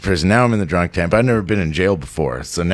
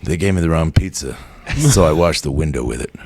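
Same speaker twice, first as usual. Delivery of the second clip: deadpan answer; 4 semitones lower than usual. Retold or imitated. Deadpan answer, staring ahead.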